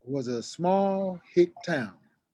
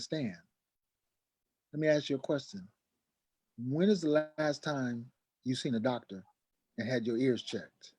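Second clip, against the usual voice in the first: serious brother; 7 dB quieter than usual. Retold or imitated. Serious brother speaks calmly.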